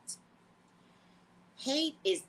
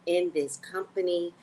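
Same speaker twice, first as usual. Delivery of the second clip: slow mock-official company line; lightly sent-up corporate voice; corporate spiel; slower than usual. Company to staff, a slow mock-official spiel. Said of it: "they all act like they're not racist".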